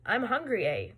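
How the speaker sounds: statement with a questioning "eh"; sounds like a question. Shown as a demonstration. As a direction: lift "eh" as if asking. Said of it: "It sounds like a question".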